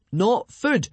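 high, loud protest; panicked shout. A narrator's reading. Hiccup correcting the monster about to eat him, panicked shout. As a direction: shout it out in alarm. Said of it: "Hiccup shouted out".

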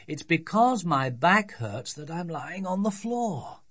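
lightly voiced exasperated dad, stressing the logic; grumpy father. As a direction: spell it out with mild irritation.

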